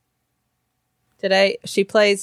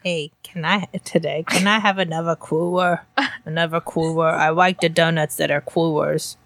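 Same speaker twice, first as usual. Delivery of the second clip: put-on gremlin kid voice. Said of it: "the voice we've all made up for Cooper".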